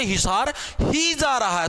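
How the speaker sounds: slow, ही stressed. Shown as a demonstration. Teacher recalling example, stress on ही. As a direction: lean on ही slowly. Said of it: "ही ने इसके ऊपर जोर डाला".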